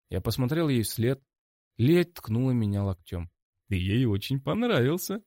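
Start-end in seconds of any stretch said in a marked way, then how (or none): 3.7-5.2 smirking tease. A narrator's reading. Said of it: "с наглой ухмылкой сказала она".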